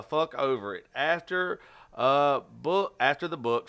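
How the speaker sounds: an amateur reader working through a bio; halting reading aloud. Real, not acted. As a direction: read a written bio aloud, stumbling now and then. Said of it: "I am a horrible reader".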